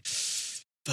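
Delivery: long, voiceless mock curse; retold sinking dread. Pilot told to phone about deviation, whispered dismay. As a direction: breathe the swear out slowly.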